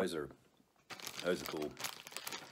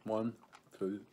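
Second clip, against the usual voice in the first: whispering; 3 semitones higher, slower than usual. Real, not acted. Whispered count.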